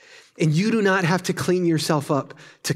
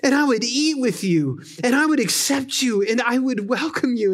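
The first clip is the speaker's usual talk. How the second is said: Jesus knocking at the door; 7 semitones higher than usual. Retold or imitated. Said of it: "he's out there saying".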